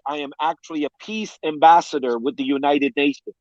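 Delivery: sobbing out the words, voice cracking; real tears as he reveals his badge; crying. Real, not acted. Overwhelmed pastor reveals his UN role, sobbing. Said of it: "crying like the baby".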